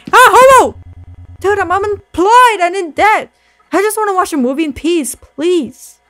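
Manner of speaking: high, loud whiny plea; pleading customer. Acted. Broke customer begging the clerk, high whiny plea. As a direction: whine and beg in a high voice.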